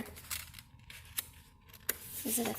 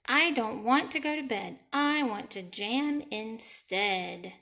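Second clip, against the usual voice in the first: Gus protesting. Acted. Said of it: "said Gus the platypus".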